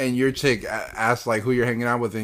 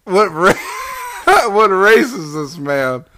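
high, raised, drawn-out demand; incredulous outburst; 6 semitones higher, 4 dB louder, much slower than usual. Real, not acted. Cohost interrupting the story about Kent, incredulous outburst. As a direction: cry out in disbelief, laughing partway.

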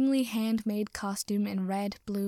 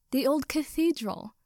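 chorused exclamation; 5 semitones higher than usual. Acted. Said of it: "all chorused".

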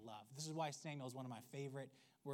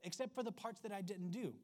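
breezy Saul; 5 semitones higher than usual. Retold or imitated. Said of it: "So Saul basically says".

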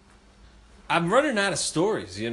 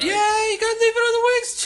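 much higher, louder sassy preach; sassy diva voice; 4 dB louder than usual. Acted. Host telling cohost to confess on the wings, high sassy voice.

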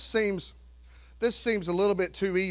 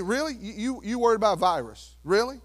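incredulous Jesus; faster than usual. Retold or imitated. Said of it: "can you hear Jesus today say".

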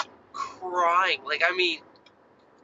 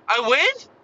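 put-on oblivious little boy; 4 semitones higher, 4 dB louder than usual. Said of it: "he's so oblivious".

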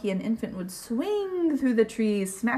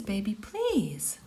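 whisper; 2 semitones lower, slower than usual. Acted. Refrain whispered in story.

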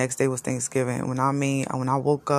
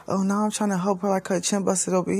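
defensive excuse; 6 semitones higher, faster than usual. Retold or imitated. Shaheem's excuse voiced.

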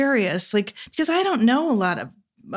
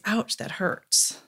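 hushed, slow and unvoiced; a quiet breathy admission of pain, slow; soft ouch; 5 dB quieter, slower than usual. Shown as a demonstration. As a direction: breathe it out gently like a small hurt. What he wants to say.

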